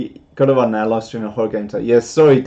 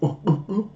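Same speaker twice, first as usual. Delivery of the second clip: higher-pitched goofy chuckle; 6 semitones higher than usual. Retold or imitated. Streamer showing viewers how Goofy sounds, imitated chuckle. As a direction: imitate a cartoon dog's chuckle. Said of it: "He sort of chuckles".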